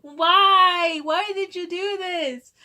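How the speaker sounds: high, drawn-out tearful wail; imitated near-crying. Pranked coworker confronting the prankster, near tears. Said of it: "she almost started crying herself".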